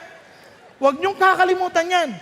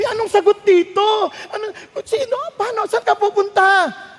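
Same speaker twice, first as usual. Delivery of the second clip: higher, frantic questions; mock panic; 5 semitones higher than usual. Pastor voices a panicked patient after the diagnosis, higher. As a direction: act out a frightened patient.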